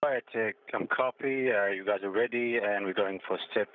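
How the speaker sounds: crackly radio link from orbit; breaking up space radio. Real, not acted. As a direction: sound like a patchy space-to-ground radio call. Station crew over space radio.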